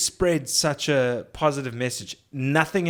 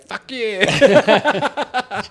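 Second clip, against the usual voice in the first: sudden shout; 9 semitones higher, 8 dB louder than usual. Retold or imitated. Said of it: "she's ticking".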